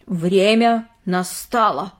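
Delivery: slow dramatic pronouncement; lightly ominous girl; mysterious. Acted. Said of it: "загадочно произнесла она".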